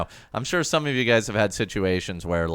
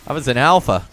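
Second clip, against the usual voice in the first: raging gamer; 5 semitones higher, 6 dB louder than usual. Real, not acted. Gets hit unexpectedly.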